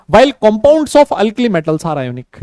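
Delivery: very slow, word by word for notes; dictating each word separately; slow dictation. Shown as a demonstration. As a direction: read it out at writing pace. Teacher dictating notes in English.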